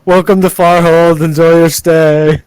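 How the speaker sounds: greeter voice. Acted. NPC greeter welcoming visitors.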